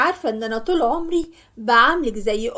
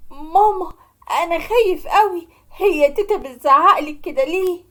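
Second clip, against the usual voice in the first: put-on higher, scared child's voice; frightened little boy; 4 semitones higher than usual. Yassin to his mother during the quarrel, frightened child voice. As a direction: sound like a small boy who is afraid.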